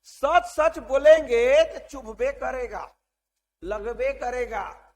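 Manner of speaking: drawn-out mock student retort, starting loud; imitating students' retort. Teacher mimics students defending blunt truth, slow emphatic mock retort. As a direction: slowly mimic the students' excuse, punching the opening. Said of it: "तुम लोग क्या बोलते हो?".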